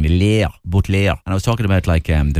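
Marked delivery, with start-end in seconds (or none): 0.0-1.1 "Lair" stretched with a Waterford vowel; Waterford pronunciation. Shown as a demonstration. Tracing Waterford to the Normans, drawn-out French-sounding "Lair". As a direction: draw out "Lair" slowly, French-style. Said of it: "the Waterford thing".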